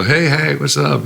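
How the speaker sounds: high, loud mock holler; calling out a greeting. Musician hailing a singer's arriving tour bus, high retold holler. Retelling his greeting to the singer.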